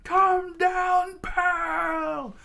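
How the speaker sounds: high, full-force scream; piercingly high, loud holler; crew screaming. A narrator's reading. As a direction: scream up at him as a panicked crew. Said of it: "the crew screamed out".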